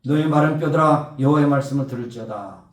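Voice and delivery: loud, measured proclamation to the dry bones; prophetic cry. Acted. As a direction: call out like a prophet commanding. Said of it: "백성을 향해서 외쳤습니다". (선지자처럼 크게 외치는 선포)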